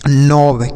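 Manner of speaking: नॉब with silent K; correct reading. Shown as a demonstration. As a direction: say नॉब as one syllable, starting on N. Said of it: "तो इसे हम पढ़ते हैं".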